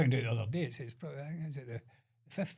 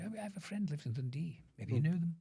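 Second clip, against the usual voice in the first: higher mimicry of a chatty woman; imitating London shop assistant; 4 semitones higher, 4 dB quieter than usual. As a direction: play the naive assistant in a higher voice. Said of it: "She went".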